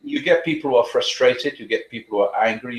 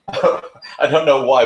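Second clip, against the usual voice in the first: laughing; 3 semitones higher, 4 dB louder, slower than usual. Real, not acted. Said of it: "I smile a lot".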